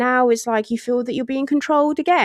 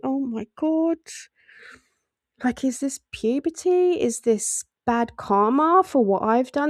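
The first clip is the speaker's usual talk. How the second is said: exasperated mum. Retold or imitated. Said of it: "This is the mum asking herself this".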